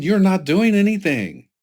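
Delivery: high, loud mock scolding; imitated angry rebuke. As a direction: voice the mad boss telling off a subordinate. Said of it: "He's mad".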